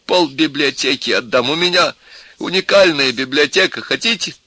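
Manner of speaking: high-pitched wailing offers; tipsy desperate cry. A narrator's reading. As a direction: bargain loudly in tipsy despair. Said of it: "вскричал пьяненький профессор в величайшем горе".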